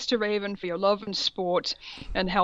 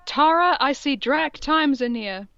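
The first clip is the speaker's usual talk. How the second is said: mock mystic prophecy; 4 semitones higher than usual. Professor peering into the ball, prophesying to Tara in a hammed-up voice. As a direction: read it like a cheesy seer, badly on purpose. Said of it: "She said badly".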